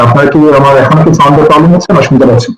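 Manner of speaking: echoing room sound. Real, not acted. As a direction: voice with hall echo. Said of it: "ইকো হচ্ছে, প্রতিধ্বনি হচ্ছে".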